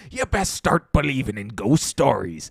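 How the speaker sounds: lightly voiced pirate captain; a hint of a gruff pirate. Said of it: "such a good pirate voice".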